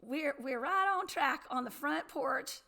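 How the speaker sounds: attempted Southern accent, barely there. Host dared by cohost tries a Southern accent, weak. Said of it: "Say it with a Southern accent".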